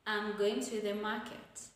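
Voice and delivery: statement settling down on "market"; falling intonation. Shown as a demonstration. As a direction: close "market" like a full stop. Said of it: "will take a falling intonation".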